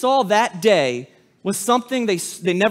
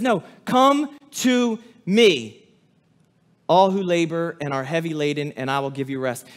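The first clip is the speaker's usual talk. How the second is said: gentle invitation; 4 semitones lower than usual. Acted. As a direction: soothe the weary. Voicing Jesus, slow and gentle.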